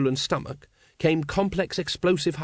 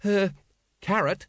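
small, higher, hesitant voice; meek; 7 semitones higher than usual. A narrator's reading. Colon turns to Carrot for help, meekly. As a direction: timidly get his attention. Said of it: "he said meekly".

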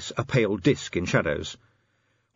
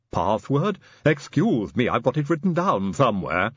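Igor; 2 semitones higher than usual. Acted. Igor's lisping figure voice.

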